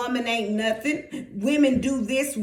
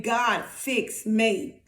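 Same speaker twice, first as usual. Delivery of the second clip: very slow, measured prayer; deliberate, drawn-out appeal; modelled plea to God; 3 semitones lower, much slower than usual. Acted. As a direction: space out the plea word by word.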